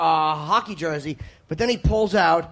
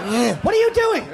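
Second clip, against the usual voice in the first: mock judge; 7 semitones higher, 4 dB louder than usual. Judge questioning in mock trial.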